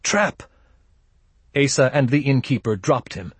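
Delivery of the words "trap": high-pitched squeaked warning; alarmed squeak. A narrator's reading. Wakened Limper warning his men of ambush, squeaking. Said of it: "he squeaked".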